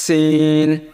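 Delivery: সিন with a long hissed s; hissed sin. Shown as a demonstration. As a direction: hold the hiss, then stretch the vowel of সিন. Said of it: "এরকম উচ্চারণ হবে". (লম্বা শিস দিয়ে সিন)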